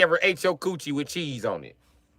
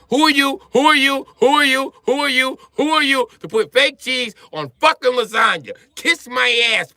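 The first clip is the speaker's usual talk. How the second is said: mock Italian accent, pitched up and louder; indignant Italian; 7 semitones higher, 3 dB louder than usual. Comic's Italian confronts the cheese culprit, hammed-up Italian accent. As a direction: demand it, outraged and repeating. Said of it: "Italians be mad about it".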